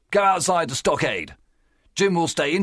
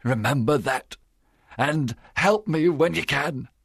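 trembling plea; 3 semitones higher than usual. A narrator's reading. Silver begs the doctor's help, mildly trembling. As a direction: plead your case with a touch of fear. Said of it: "Silver's voice trembled".

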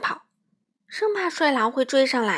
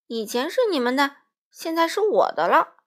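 unhurried; 4 semitones higher, 6 dB louder than usual. A narrator's reading. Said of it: "帅狼不慌不忙地说".

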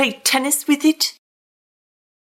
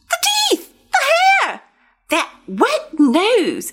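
high, horrified squeals; 10 semitones higher, slower than usual. Acted. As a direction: recoil at each scary detail. Pigeon horrified by the dog.

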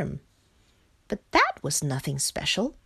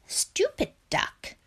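scornful whisper, higher; whispered thought; slower than usual. Acted. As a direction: hiss it under the breath. Frog's private scornful thought.

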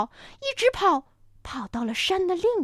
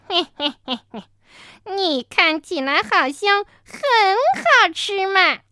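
sly predator; 6 semitones higher, 6 dB louder than usual. Acted. Another dinosaur leers.

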